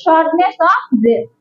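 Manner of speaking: each word of shortness of breath drawn out very slowly for writing down; dictating shortness of breath at a crawl; slow dictation. Shown as a demonstration. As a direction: spell it out slowly so the class can copy it. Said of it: "লিখে রাখেন".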